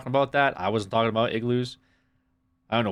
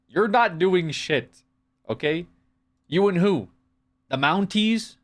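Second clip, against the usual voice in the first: higher, slow taunting jeer; mock taunting; 7 semitones higher, 3 dB louder, slower than usual. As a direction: taunt them in hammed-up fury. Mock outrage at British chatter.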